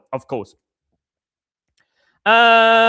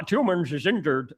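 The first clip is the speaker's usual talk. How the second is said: softer, attempted Bristol accent; possible Bristol accent; 5 dB quieter than usual. Shown as a demonstration. Streamer puzzling over his own accent, tentative Bristol twang. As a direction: try out a rough Bristol accent. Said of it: "Is it a Bristol accent?".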